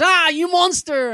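mock outraged yell. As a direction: bellow it like a betrayed hero in a comic. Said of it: "he goes".

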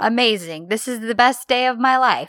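sarcastic. Retold or imitated. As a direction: imitate sarcastic joy. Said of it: "It's so sarcastic".

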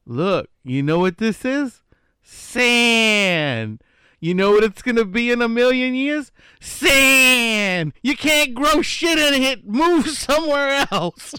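high, slow, rising screamed rant; Sam Kinison scream. Retold or imitated. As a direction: build to a furious yell. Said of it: "And he goes".

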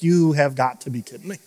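half-amused, half-exasperated; laughing disbelief. Retold or imitated.

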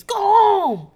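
mock scream; loud, high imitated holler; Renee. Recapper acting out host sending guests away, mock scream. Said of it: "and then screams".

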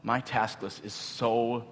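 mildly burdened, dwelling on the load; overwhelmed inner voice. Retold or imitated. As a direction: murmur it like a sinking realization. Voicing his mind burdened at prayer.

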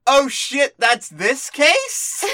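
high, startled oh shit; sudden realization. Retold or imitated. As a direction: catch it all at once. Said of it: "I was instantly like".

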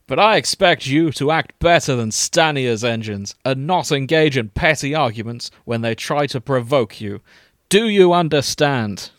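firm reprimand from a father figure; stern, disappointed. Acted. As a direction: lecture sternly, raising the final question. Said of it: "looked stern and disappointed".

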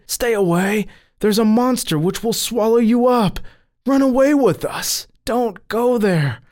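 high-pitched frantic warning; shouting. A narrator's reading. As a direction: warn them urgently, voice pitched right up. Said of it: "they shouted".

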